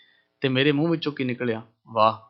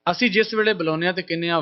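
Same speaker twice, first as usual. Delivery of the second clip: ordinary talk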